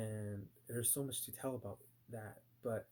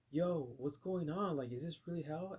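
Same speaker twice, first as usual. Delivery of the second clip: alarmed retelling; 5 semitones higher than usual. Retold or imitated. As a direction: call out in disbelief to your friends. Calling to friends in retold nightmare.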